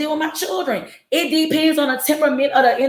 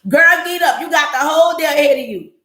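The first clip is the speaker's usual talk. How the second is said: higher and a bit louder, brisk push; bossy mother; 4 semitones higher, 3 dB louder than usual. Retold or imitated. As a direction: rouse a sleepy daughter. Mother pushing daughter out of bed.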